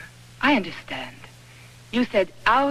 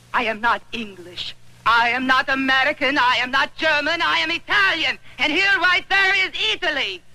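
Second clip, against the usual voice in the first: each line climbs higher, building to outrage; rising anger; 5 semitones higher than usual. Acted. Italian woman angrily defies the general.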